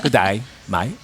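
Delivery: broad Australian accent with dropped jaw. Shown as a demonstration. Irishman showing how Australian is made, dropped-jaw Australian accent. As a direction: pull the jaw down for an Australian greeting. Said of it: "you have an Australian accent".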